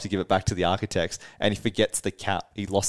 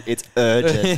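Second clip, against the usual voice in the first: mock cool urgency; 3 semitones higher, 5 dB louder, slower than usual. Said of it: "trying to not sound like a dickhead".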